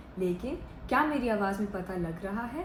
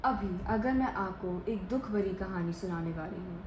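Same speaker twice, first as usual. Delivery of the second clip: subdued, slightly lowered sad voice; demonstrated sadness, softly understated; 2 semitones lower, 3 dB quieter than usual. Shown as a demonstration. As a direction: tell it reluctantly, in no hurry. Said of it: "मैं एकदम से धीरे और कम आवाज़ में बोल रही हूँ".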